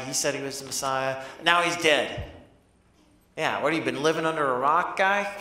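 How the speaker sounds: mildly exasperated, rattling off the news; lightly incredulous rant, building to a jab; mock scolding. Disciples telling the clueless stranger the news, mock scolding. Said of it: "they start to scold him".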